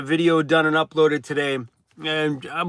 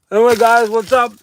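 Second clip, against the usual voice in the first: excited; 7 semitones higher, 8 dB louder than usual. Real, not acted. Loud live greeting.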